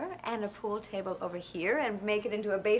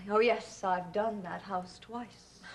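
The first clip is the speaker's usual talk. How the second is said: snooty Douglas; 2 semitones lower, slower than usual. Retold or imitated. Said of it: "Douglas always talks down his nose to people".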